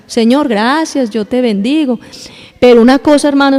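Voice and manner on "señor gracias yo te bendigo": mock yawning prayer. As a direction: mumble it like you're falling asleep. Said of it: "hasta va bostezando".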